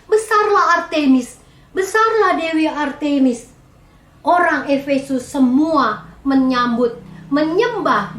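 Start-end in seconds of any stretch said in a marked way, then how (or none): 0.0-3.5 raised voice, higher, mock rallying cry; half-shouted retold slogan; retold crowd-rousing shout. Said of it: "sambil dia berteriak-teriak".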